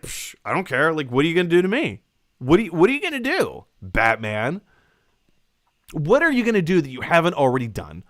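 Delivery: loud, fast taunting Joker impression; mocking Joker taunt. Streamer acting out Joker taunting Batman, loud and fast. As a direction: jeer it out like a cocky villain. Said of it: "And Joker's like".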